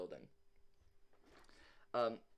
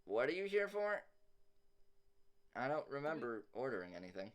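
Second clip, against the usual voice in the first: put-on voice of a puzzled shopkeeper; suspicious welder woman; 4 semitones higher, faster than usual. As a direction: challenge an unexpected visitor in a raised character voice. Game master voices the vision figure.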